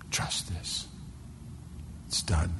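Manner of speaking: very soft, near-whispered promise; hushed assurance. Acted. Preacher voices God sealing his promise, hushed assurance. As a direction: drop to a solemn hush.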